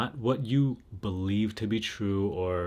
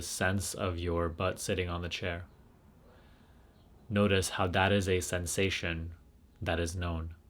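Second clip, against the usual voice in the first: guided meditation. Real, not acted. Leads a guided self-inquiry.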